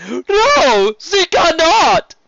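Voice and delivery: over-the-top friendly serpent duke; flamboyant sea serpent. Acted. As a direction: gush like a warm, showy nobleman. Serpent agrees.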